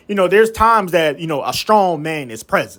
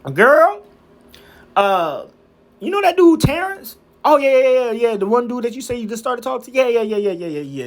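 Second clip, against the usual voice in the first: put-on gossiping girlfriends; 4 semitones higher than usual.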